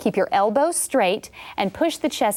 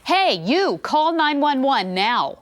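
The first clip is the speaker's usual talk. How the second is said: raised, firm order, slow on call nine one one; ordering a bystander to call for help, firm and raised; commanding call; 4 semitones higher, slower than usual. Shown as a demonstration. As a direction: bark the order so they act. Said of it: "say it like you mean it".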